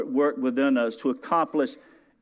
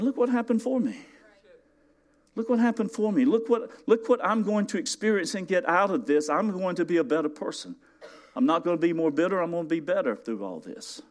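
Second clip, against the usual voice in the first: much higher, bright and declaring; joyful confession; 6 semitones higher than usual. Retold or imitated. Preacher models grateful believer, high exultant declaration. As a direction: proclaim it like good news. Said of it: "and start saying".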